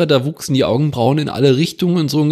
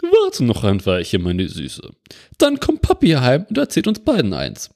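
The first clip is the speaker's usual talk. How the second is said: disguised mother voice. Acted. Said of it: "mit verstellter Stimme einsprechen".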